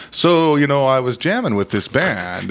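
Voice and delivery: lightly attempted British accent, lilting start; British accent, like a singer. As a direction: do a casual amateur British accent. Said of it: "this is my British accent".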